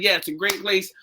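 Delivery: soft, unstammered "Yeah, it's a great place"; awkward small talk. Retold or imitated. Retold polite answer to an unwanted admirer, quietly awkward. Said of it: "thinking of what to say".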